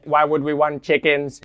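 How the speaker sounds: put-on old speech synthesizer. Alien questioning human.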